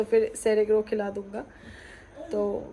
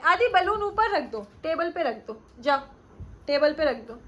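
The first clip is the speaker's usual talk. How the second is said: higher-pitched parental prompting; 5 semitones higher than usual. Real, not acted. Mother tells son to put balloon on table, parental prompting. Instructing toddler about balloon.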